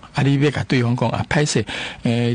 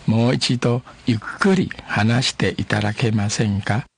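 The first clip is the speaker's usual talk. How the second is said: each syllable laid out slowly for learners; a teacher spelling out a polite request slowly; slow, careful demo. Shown as a demonstration. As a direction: model it slowly and clearly. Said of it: "慢慢啊".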